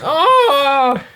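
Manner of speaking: loud high oh; startled loud exclamation; surprised. Real, not acted. Reacting to hockey.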